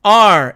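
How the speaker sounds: "are" as one clear syllable; demonstrated pronunciation. Shown as a demonstration. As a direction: model the word "are" for learners. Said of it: "이렇게 발음합니다".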